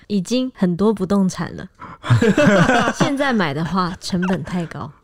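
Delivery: lightly imitating a magnetic voice. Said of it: "我要有磁性".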